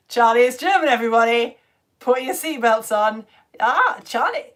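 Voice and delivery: loud, hammed-up German accent; shaky grasp of a German accent, played big; attempted German accent. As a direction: put on a bad, booming German accent. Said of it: "I can't do the German accent".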